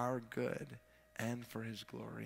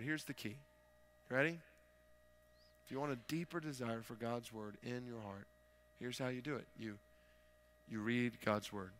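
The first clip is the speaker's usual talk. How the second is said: hushed preaching reveal; 5 dB quieter than usual. Real, not acted. Preacher revealing the key to hungering for God's word, hushed. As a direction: let the simple answer land quietly. Quiet reveal after fervent build.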